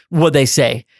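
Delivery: lightly voiced boss asking. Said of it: "he's all like".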